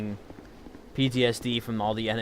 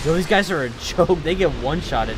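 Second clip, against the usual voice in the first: laughing loudly mid-sentence; 5 semitones higher, 6 dB louder than usual. Real, not acted. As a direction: burst out laughing at them. Laughing at weak enemies.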